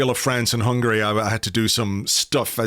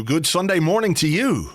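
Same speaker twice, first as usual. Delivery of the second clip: churchy greeting; 6 semitones higher than usual. Pretend. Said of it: "That's how they say it in church".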